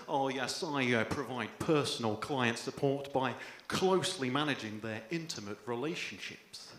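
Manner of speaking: low, slow, smooth spiel, softening to the end; mock posh job spiel. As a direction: oversell the job title like a smooth salesman. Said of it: "embellish the truth a little bit and go".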